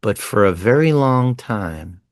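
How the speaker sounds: put-on slow old man's reply. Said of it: "he thinks and speaks slowly".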